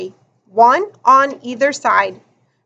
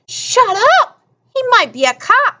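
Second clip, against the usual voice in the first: frantic shout; 10 semitones higher than usual. Acted. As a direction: shout him down in alarm. Kid shushing friend in fight.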